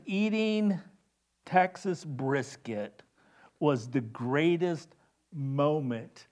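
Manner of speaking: lightly imitated Frenchman, slow and measured; mock-earnest French accent, savoring each word slowly. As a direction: quote him slowly with a hint of French accent. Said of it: "the French accent".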